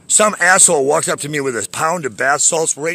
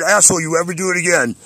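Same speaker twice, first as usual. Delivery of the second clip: retold threat; 5 semitones higher than usual. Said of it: "I said".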